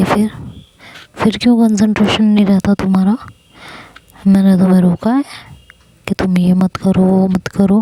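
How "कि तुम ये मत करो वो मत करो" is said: normal talking voice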